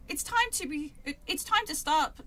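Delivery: scolding line in amateur British; badly faked British reading voice; British character voice. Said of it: "do the voices at, in British".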